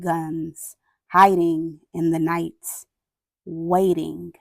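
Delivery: grave picture-book reading with long pauses; measured, sombre storytelling; solemn story narration. A narrator's reading. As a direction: read it aloud gravely, letting each phrase hang. Reads picture book aloud.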